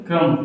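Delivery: "क्रम" ending on m, no b; silent B. Shown as a demonstration. Teacher drilling the word crumb, silent B in "क्रम". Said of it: "बी का उच्चारण हमें नहीं करना".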